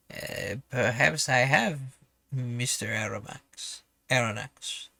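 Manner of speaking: put-on slow, halting French-accented reply; hesitant harpooner with a rough French accent; bad French accent. Harpooner answers the professor's question at last, bad French accent. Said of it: "my terrible French accent".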